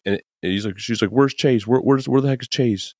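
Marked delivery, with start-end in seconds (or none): 1.1-2.9 mock annoyed Zoe. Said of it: "She's pretty pissed".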